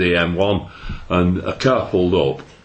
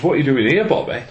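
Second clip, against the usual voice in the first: higher-pitched questioning, lightly acted; wife's retold surprise; 5 semitones higher than usual. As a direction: imitate a baffled wife asking. Surprised wife voiced in anecdote.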